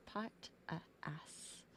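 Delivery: whispered punchline; soft aside whisper; sly whisper. Real, not acted. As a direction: whisper the rude joke. Joke about assistant.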